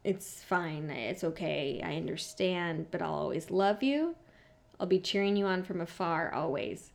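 quiet, falling mock-tearful plea; a touch of retold sobbing, soft; softly mimicked sobbing speech. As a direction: imitate him barely getting it out. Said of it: "Starts crying".

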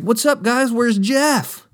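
high, breezy fake-casual greeting; eager kid voice. Kid bluffing to the skater crew, high and breezy. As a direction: play it cool but way too eager.

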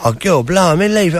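hammed-up Cockney grumble; put-on Cockney exclamation; Cockney accent. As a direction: play up the Cockney for laughs. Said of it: "I've gotta be careful when I go Cockney".

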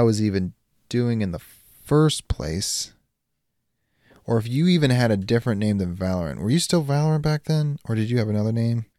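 calm, gloating supervillain monologue; villain speech. Acted. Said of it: "you are giving your greatest villain speech".

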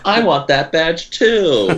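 high, drawn-out mock whine; left-out Faith. Co-host joining the Faith joke, high mock pleading. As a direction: stretch it out high, playing the kid who wants in.

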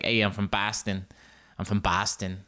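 low-key, poor Boston accent. Shown as a demonstration. Host tries a Boston catchphrase, weak Boston accent. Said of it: "like, a Boston thing".

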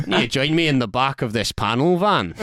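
lightly hammed Scottish local, through a laugh; Scottish accent. Glasgow local luring a visitor into his van, Scottish accent. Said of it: "Doing the Scottish accent".

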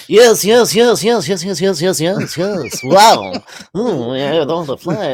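hammed-up, musing actor impression; Jeff Goldblum. Co-host doing Goldblum on the host's request, hammed-up impression. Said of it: "hear it in the Jeff Goldblum".

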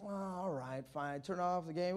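put-on soft, reluctant kid giving in; grudging compliance. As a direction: give in quietly, dragging your feet. Reluctant kid obeying mom.

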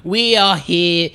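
put-on slow, posh English accent; posh Brummy accent. Guest imagining posh Brummies at tea, English accent. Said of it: "it's, it's more posh".

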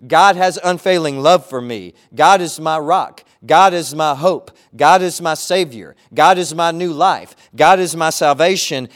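loud declarations stressing God; proclaiming. Acted. Pastor declaring God's love to the church, loudly. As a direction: call out each God line.

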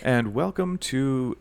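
a touch of radio presenter, drawn out. Pretend. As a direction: stretch it like a radio host. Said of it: "my radio voice, apparently".

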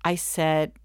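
ordinary delivery

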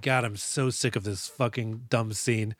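slow, quiet exasperation; retold fed-up grumble. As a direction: mutter it wearily, drawing it out. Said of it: "at this moment, I was like".

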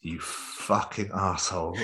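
slow, soft swearing under the breath; retold curse, dragged out and kept low; muttered aside. Thought he dared not say aloud.

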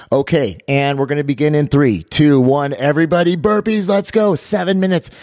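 rising coach's countdown, climbing high; rally the group to start, pitch soaring; re-enacted high, excited starting call.

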